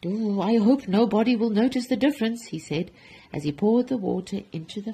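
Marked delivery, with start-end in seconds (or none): 0.0-2.5 higher, mildly anxious fretting; desperate hope. Acted. Baker swapping water for milk, anxious hope. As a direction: worry aloud, hoping to get away with it. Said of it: "In desperation".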